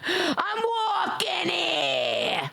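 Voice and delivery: high, very slow sing-song; playful boast. Acted. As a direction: stretch it out high and proud.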